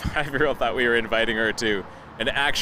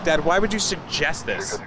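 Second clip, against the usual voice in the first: lightly voiced indignant girl; a hint of a put-out kid scolding dad; indignant daughter; 4 semitones higher than usual. Daughter scolding dad over the dinosaur film, mildly indignant. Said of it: "really indignant about my".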